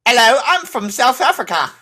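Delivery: high put-on South African voice; South African accent. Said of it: "I actually have a flawless one".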